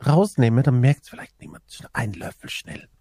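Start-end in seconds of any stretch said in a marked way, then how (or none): 1.1-2.9 whispering. Retold or imitated. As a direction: whisper it like sneaking a spoonful. Sneaking tiramisu from the fridge. (heimlich flüsternd)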